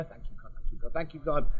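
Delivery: breathy hushed thanks to God, barely voiced; whispered quick prayer. Retelling his secret prayer over the vodka, whispered. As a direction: murmur a grateful prayer under your breath. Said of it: "I said a quick prayer".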